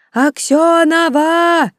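put-on high, drawn-out drunken howl; drunken wail. Drunk boyfriend howling her name under the dorm window. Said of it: "И снова вопль".

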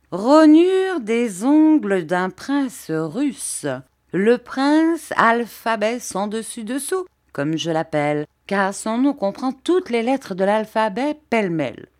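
showy little woman, high and emphatic; Miss Mowcher. A narrator's reading. Hairdresser showing off a prince's nail parings, theatrical flourish. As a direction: announce it grandly, high, dropping for the aside. Mowcher shows off her trophy.

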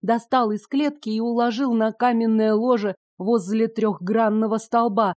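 ordinary delivery

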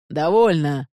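a sharp, loud bark; barked order. Acted. Magistrate silencing the arguing pair, barked order. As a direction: cut them off with a shout. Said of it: "гаркнул распорядитель".

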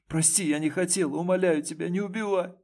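high, rushed desperate begging; frantic pleading for mercy. A narrator's reading. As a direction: beg him not to kill you. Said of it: "взмолилась Ксюша".

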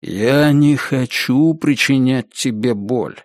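slow, mild reassurance; gently, almost heartfelt. Acted. Attacker reassures captive woman, gently and almost heartfelt. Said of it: "сказал он мягко, чуть ли не сердечно".

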